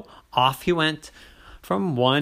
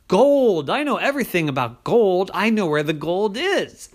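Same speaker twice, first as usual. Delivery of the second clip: bedtime-story leprechaun voice; leprechaun boy voice; 3 semitones higher, 4 dB louder than usual. Acted. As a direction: squeak it up like a small hopeful leprechaun. Liam character voice.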